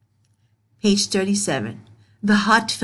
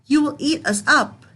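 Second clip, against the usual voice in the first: mild mock yell, a bit higher; loud pigs yelling; 5 semitones higher than usual. Pigs yelling back at the wolf, mild mock yell. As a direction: call it out to the wolf. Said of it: "the pigs yelled in a loud voice".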